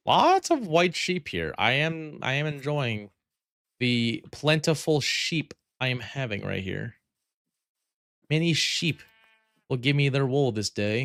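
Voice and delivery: put-on high, old-fashioned formal speech; mock formal voice. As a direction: play a pompous lord. Mock formal sheep talk.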